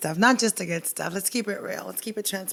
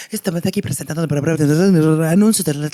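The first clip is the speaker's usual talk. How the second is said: loud, lower, rattled-off Spanish ad voice; rapid-fire Spanish announcer; 4 semitones lower, 6 dB louder, faster than usual. Retold or imitated. Guest imitating Spanish local ads, rapid-fire. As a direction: cram it all in like a radio ad. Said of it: "they say so many things".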